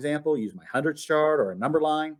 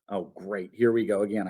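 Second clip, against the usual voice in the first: sarcastic thought; 5 semitones lower than usual. Acted. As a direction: roll your eyes inwardly. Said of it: "I thought".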